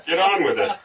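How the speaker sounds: storyteller's angry bidder; angry shout. A narrator's reading. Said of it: "Another voice shouted angrily".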